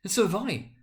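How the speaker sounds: eager cry. Acted. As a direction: chime in keenly like a boy. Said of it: "exclaimed another".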